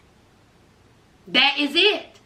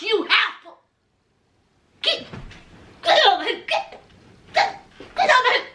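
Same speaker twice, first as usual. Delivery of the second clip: higher, fast mock tirade; mock cussing out; 4 semitones higher, faster than usual. Host acting out how Dante should cuss Nicole out, higher and fast. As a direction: tell her off, half laughing.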